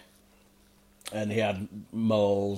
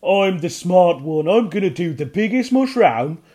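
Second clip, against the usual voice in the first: boastful goblin; 9 semitones higher, 8 dB louder than usual. A narrator's reading. Ugnok boasting before jumping, high goblin voice. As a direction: brag you're the smart one. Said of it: "Ugnok thinking".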